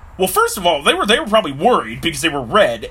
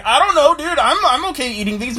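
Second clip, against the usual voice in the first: dazed Jimmy; 8 semitones higher than usual. Acted. Jimmy confused mid-reaction.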